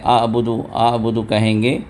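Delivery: اعبدو with glottal hamza; light glottal start; wrong-meaning hamza version; hamza onset. Shown as a demonstration. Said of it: "اور وہی اگر آپ ہمزے سے کہہ رہے ہیں".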